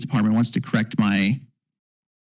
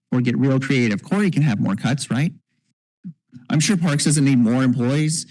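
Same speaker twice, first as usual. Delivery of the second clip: mock-innocent sarcasm, slightly raised pitch; sarcastic; 2 semitones higher than usual. Real, not acted. Council member joking about cuts to Parks, sarcastic. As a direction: toss out the suggestions with obvious sarcasm. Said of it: "I'm being very sarcastic".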